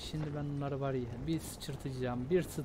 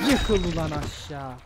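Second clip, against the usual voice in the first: angry shout; 9 dB louder than usual. Real, not acted. Yelling at enemy to fall.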